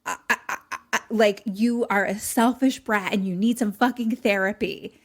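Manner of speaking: loud acted tirade, stammering midway; losing her mind. Girl berates the boy as a child, incensed. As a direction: lay into him, sputtering with outrage. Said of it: "losing her mind".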